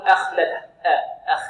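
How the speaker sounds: أخلده with the kha as light as the hamza; over-light أخ in أخلده, thin all through; thinned kha. Shown as a demonstration. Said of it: "ولا نقول".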